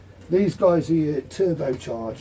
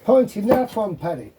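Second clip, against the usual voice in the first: light mock Irish accent, pint said as poynt; a quick jokey Irish brogue; 5 semitones higher than usual. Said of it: "I should not have said that in an Irish accent".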